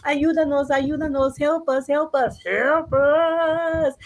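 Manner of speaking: put-on high-pitched frightened child mice; acted, urgent plea rising to a wail; calling for help. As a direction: cry out to parents while fleeing. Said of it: "they were calling to their parents".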